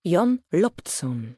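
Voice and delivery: put-on the boy says his name slowly and deliberately; lightly voiced shy boy, drawn out; boy's reply. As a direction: Jon Loptson said slowly, each syllable separate.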